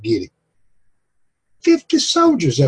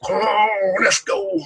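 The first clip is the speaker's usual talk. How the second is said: a lightly voiced rider, higher and eager; eager call; 6 semitones higher, much slower than usual. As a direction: call them to ride out, lightly acted. Preacher voices the man-child calling.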